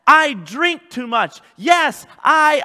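shouted, slow confession of sins; loud confession. Shown as a demonstration. Preacher shouts a sinner's confession to the congregation, loud and slow. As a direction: cry out each yes like a man owning his sins. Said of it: "You have to be honest".

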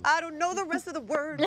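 speaking with brain freeze. Real, not acted. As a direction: talk through a cold headache. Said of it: "I've got brain freeze".

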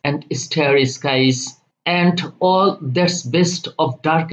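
slow, measured verse reading; poem recitation. Acted. Teacher reads Byron's first stanza to students, slow poem recitation. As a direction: recite it slowly, phrase by phrase.

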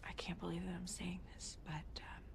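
soft, hushed and halting; hesitant confession. Acted. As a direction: confess it quietly, as if reluctant. Hesitant confession of marriage regret.

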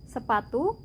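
sepatu said in Indonesian, even syllables; sepatu, the Indonesian twin of zapatos; Indonesian word. Shown as a demonstration. Teacher gives the Indonesian form of zapatos: Indonesian pronunciation. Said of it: "Aquí decimos".

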